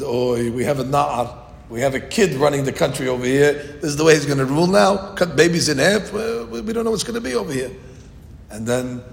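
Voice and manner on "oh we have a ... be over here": mocking rabbis. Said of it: "They said".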